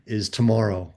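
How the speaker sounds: low, heavy retold confession; subdued grief. Mother confiding about her lost son, subdued.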